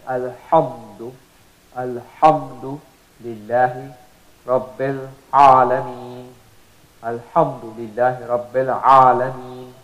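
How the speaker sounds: alhamdu recited slowly with strong throat ha; slow recitation. Shown as a demonstration. Teacher reciting slowly to show the throat ha. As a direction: chant it slowly, stressing the ha. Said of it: "from the middle of the throat".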